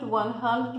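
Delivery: one hundred, said slowly and clearly; teacher modelling numbers; model pronunciation. Shown as a demonstration. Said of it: "você pode falar".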